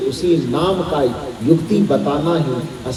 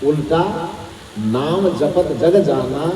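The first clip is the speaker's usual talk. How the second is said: उल्टा alone, pause, slower नाम जपत जग जाना; pause after उल्टा; 4 dB quieter, slower than usual. Shown as a demonstration. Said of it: "उल्टा के बाद अल्प विराम". (उल्टा, विराम, फिर धीरे नाम जपत जग जाना)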